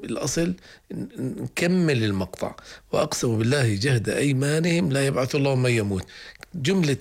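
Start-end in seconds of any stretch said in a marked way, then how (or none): 2.9-6.1 وأقسموا بالله جهد أيمانهم لا يبعث الله من يموت read straight through with no pause after أيمانهم; correct continuous reading. Shown as a demonstration. Teacher showing the right way to join the verse. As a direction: carry the verse on without stopping. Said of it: "الوقف الابتداء مهم".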